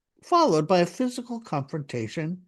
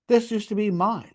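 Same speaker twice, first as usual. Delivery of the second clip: bitter complaint; 3 semitones higher than usual. Retold or imitated. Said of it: "complained bitterly".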